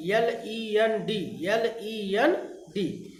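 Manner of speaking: slow spelling aloud. Shown as a demonstration. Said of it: "उधार देने का होता है लेंड".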